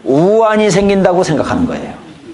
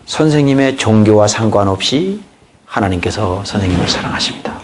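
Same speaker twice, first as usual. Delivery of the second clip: soft witnessing line; 7 semitones lower than usual. Shown as a demonstration. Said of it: "하고 복음으로 들어가는 것입니다".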